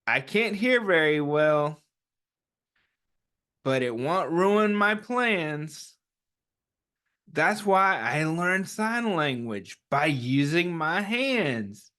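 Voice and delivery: gentle, slow picture-book read-aloud; reading to children. Acted. Teacher reads the picture book aloud to the class, gently. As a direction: read it like storytime for little ones.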